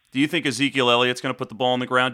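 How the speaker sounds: brisk clear repeat; fast repeated question. Real, not acted. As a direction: say it again quickly. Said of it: "Say it again?".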